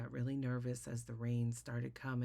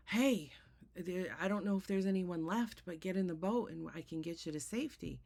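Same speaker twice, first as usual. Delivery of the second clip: calling out; 3 semitones higher than usual. Retold or imitated. Rescuer calls from boat.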